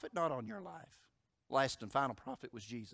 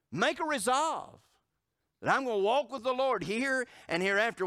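fiery preaching; 8 semitones higher, 7 dB louder than usual. Acted. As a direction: lift the congregation, preach it hard. Preaching climax.

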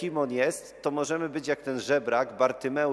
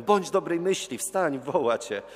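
raised, urging voice, slowing at the end; encouraging call; 4 semitones higher than usual. Retold or imitated. Crowd urges blind beggar to get up, encouraging call. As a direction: cheer him on like the crowd.

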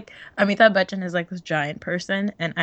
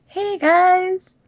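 higher, louder, mock-casual confession; mock sheepish hero; 6 semitones higher, 3 dB louder than usual. Son explaining the wedding to his parents, a hammed-up breezy voice. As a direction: ham up a guilty son breezing through bad news.

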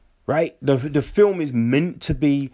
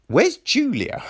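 baffled; 9 semitones higher than usual. Acted. Viewer's baffled reaction acted out.

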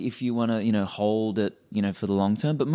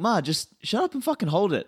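higher, laughing exasperated reply; laughing retort; 10 semitones higher than usual. Retold or imitated. Son retells telling his mum to hold, laughing. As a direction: snap back at mum through a laugh. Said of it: "I'm like".

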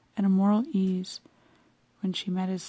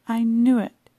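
excited cry; 3 semitones higher, 7 dB louder, slower than usual. A narrator's reading. Boy telling the governess he was right, excited. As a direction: boast to the governess. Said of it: "he cried to the governess".

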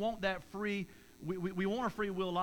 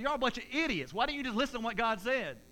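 mock exasperation; 4 semitones higher than usual. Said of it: "I was like".

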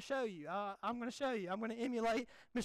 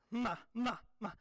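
T D Jakes impression; 2 semitones lower than usual. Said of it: "my best impersonation of him".

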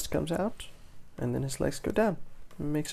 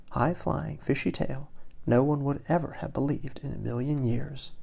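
expressive read-aloud winding down; animated storyteller; story narration; 6 dB louder than usual. A narrator's reading. Reads picture book to children.

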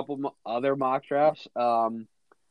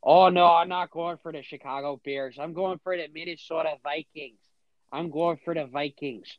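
put-on Minnesota accent, lightly done; a hint of Midwestern vowels; 2 semitones higher than usual. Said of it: "I'll do it in the Midwestern accent".

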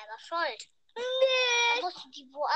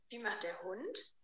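put-on reading to a toddler; 6 semitones lower, 13 dB quieter than usual. Asking a toddler animal sounds.

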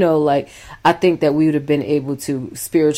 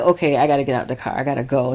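rushed exit line; 3 semitones lower, 3 dB quieter, much faster than usual. Retold or imitated. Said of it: "I'd be like".

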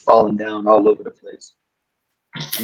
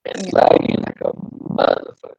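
choppy laggy call audio; breaking up over a bad connection; video call lag; 4 dB quieter than usual. Real, not acted. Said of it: "Yeah, that's bad".

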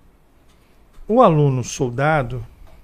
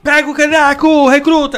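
higher, louder order to the rookie; bossy old cop; 11 semitones higher, 7 dB louder than usual. Retold or imitated. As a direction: bark an order at the recruit.

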